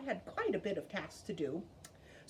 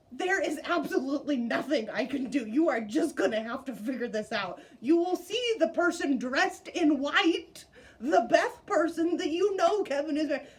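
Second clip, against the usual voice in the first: louder, rushed inner panic with a laugh; panicked inner voice; 3 semitones higher, 6 dB louder than usual. Retold or imitated. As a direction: blurt out your silent panic. Inner panic at wedding mix-up.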